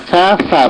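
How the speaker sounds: "সা" বলুন জিভের ডগা দাঁতের ডগায় ছুঁয়ে, শিস ছাড়া; "সা" আরবি মাখরাজে, কোনো সিটি নেই; আরবি সা উচ্চারণ. Shown as a demonstration. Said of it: "আরবির মতো তাকে উচ্চারণ করতে হবে". ("সা" ধীরে স্পষ্ট করে, আরবি থা-এর মতো)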